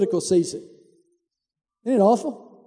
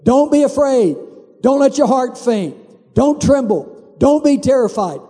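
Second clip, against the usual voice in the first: louder, pressing rallying cry; urgent repeated exhortation; 4 semitones higher, 4 dB louder than usual. Retold or imitated. Priest rallying soldiers before battle, urgent and loud. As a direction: drum it into the troops. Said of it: "say it over and over".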